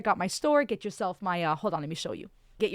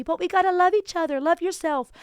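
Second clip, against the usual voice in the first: fired up; 8 semitones higher, 5 dB louder than usual. Real, not acted. Passionate point about real science.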